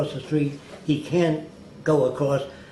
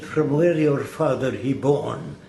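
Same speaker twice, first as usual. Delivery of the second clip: slow, lightly imitated Arabic-accented broken English; a hint of Elbaz's Arabic accent, slowed down; 3 dB louder than usual. Elbaz asking on the phone where his father was born, in a light Arabic accent. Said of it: "I know his dialect".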